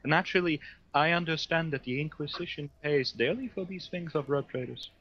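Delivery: lightly voiced, measured psyker; psyker character. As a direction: play a formal psyker answering an interrogator. Psyker bargains with the interrogator.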